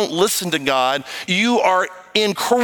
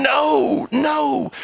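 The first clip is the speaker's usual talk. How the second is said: calling out no; 7 semitones higher than usual. Retold or imitated. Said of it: "God is crying out to you going".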